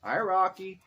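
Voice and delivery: bright, high hello to a dog; high dog greeting. Real, not acted.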